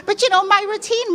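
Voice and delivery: high laughing voice. Real, not acted.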